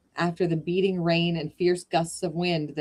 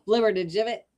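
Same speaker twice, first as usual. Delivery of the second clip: savoring the word; 5 semitones higher, 3 dB louder, faster than usual. Real, not acted. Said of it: "Such a good word".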